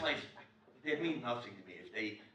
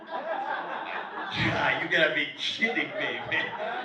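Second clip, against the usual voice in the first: shouted through laughter; laughing disbelief; 2 semitones higher, 7 dB louder, much slower than usual. Retold or imitated. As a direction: burst out in amused disbelief. Laughing outburst at seatmate's retort.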